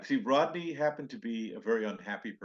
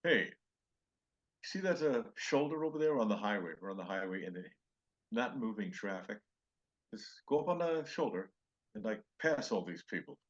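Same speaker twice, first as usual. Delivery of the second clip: imitating Rodney. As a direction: talk the driver into breaking rules. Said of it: "so he tells the driver".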